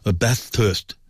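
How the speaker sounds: "Bathurst" broken into Bath-Thurst, both syllables full; overanalysed Bathurst. Shown as a demonstration. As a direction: read "Bathurst" as two separate words, bath and thurst. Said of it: "you look at it and".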